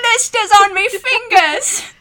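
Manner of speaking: high, loud, slow British rock-star voice; mock Liverpool accent. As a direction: stretch it out in a silly Liverpool accent. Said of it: "I'm Ringo".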